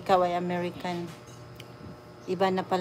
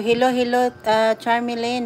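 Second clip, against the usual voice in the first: cheery greeting; 4 semitones higher, 8 dB louder than usual. Real, not acted. Greeting live viewers by name.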